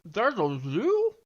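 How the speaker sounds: slow, wide-eyed excited question; excited character voice. Acted. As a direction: gasp it out in slow wonder. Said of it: "Duncan's like".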